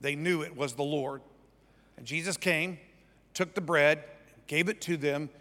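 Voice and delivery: measured Bible reading; scripture reading. Acted. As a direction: read the passage aloud evenly to a congregation. Reads scripture aloud.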